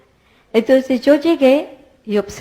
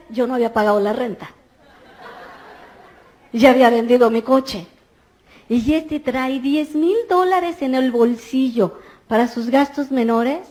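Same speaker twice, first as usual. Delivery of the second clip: normal talking voice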